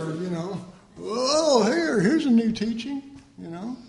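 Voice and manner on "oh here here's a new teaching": higher, louder distracted enthusiasm; mock excitement. Preacher mimics believers chasing new teaching, mock excitement. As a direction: imitate someone chasing a novelty.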